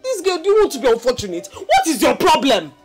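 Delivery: exasperated mother yelling at her daughter; scolding shout. Acted. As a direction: tear into a lazy child. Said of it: "you're shouting at me".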